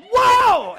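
very high, loud cartoon yelp; comic startled yell. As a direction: holler like a demon skidding out. Demon slipping on oil, comic.

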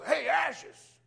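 loud high call across the shop; retold yell. Customer yelling to the man across the oil change place, loud high call. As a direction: call out his nickname from afar, loud and high. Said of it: "and he yells".

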